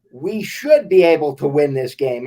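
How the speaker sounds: should leaned on, a touch longer and firmer; stress on should. Real, not acted. Host to co-host, hopeful about the game, stressing should. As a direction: press the word should. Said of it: "I emphasize the word should".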